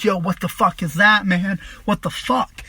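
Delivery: reenacted mild panic; mildly freaking out. Tripping man to his older friend about the talking lamp, mildly freaking out. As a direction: act out alarmed disbelief, not full force. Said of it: "And so I'm freaking".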